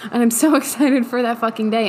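excited, laughing through the words; laughing excitement. Acted. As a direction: let giggles break into the eager line. Acting out hopeful self, laughing.

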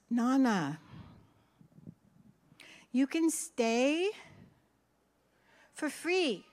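each word drawn out slowly; slow, careful. Retold or imitated. Grandson slowly repeating his point for Nana. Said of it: "And he goes".

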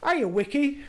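"hiya, Wiki" with the V turned into a W. Retold or imitated. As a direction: imitate him saying "Wiki" for Vicky, w instead of v. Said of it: "with a V in it".

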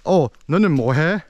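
proper Seoul city accent; standard Seoul Korean. Shown as a demonstration. Showing listeners proper city Korean, Seoul accent. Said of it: "proper Seoul city Korean would be".

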